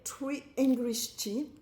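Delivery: "Tree English Tea" said slowly in a put-on English accent. Vlogger showing off the brand name, slow English accent. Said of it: "Vous avez vu cet accent?".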